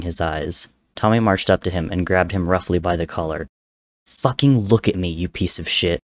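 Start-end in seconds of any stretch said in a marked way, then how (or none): 4.1-6.0 scream. Acted. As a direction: yell it at his brother's face. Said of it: "Tommy screamed".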